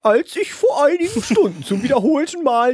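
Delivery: put-on high, slow old wizard voice. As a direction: read it like an ancient wizard. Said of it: "ich mach das auch so ein bisschen in der Zaubererstimme". (hohe, langsame Zaubererstimme)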